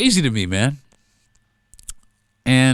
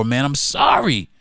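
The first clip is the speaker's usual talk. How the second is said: usual speaking voice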